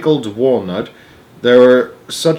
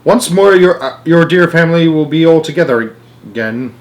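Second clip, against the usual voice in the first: jubilant; 5 semitones higher, 5 dB louder than usual. A narrator's reading. Wonka's jubilant return.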